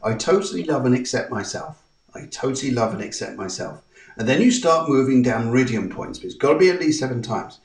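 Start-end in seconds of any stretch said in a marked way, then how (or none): 0.0-3.8 softly repeated affirmation, fading at the end; spoken affirmation. Shown as a demonstration. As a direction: say it to yourself like a gentle vow. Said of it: "you start saying the affirmation".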